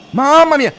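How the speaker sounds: very high, loud burst of alarm; shocked cry. Real, not acted. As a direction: gasp out in shock. Near miss shock.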